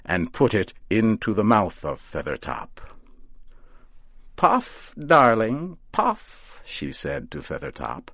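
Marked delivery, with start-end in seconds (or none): 4.4-6.6 high, sing-song coaxing of a pet; coaxing witch. A narrator's reading. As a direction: urge him on like a doting old witch. Coaxing scarecrow to smoke.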